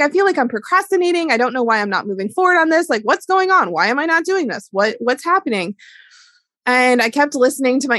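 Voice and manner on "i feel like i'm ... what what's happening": high-pitched, exasperated self-questioning; mock frustration, rushing the questions; retelling her impatient ego, pitched up; frustrated. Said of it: "my ego was, like, getting really frustrated".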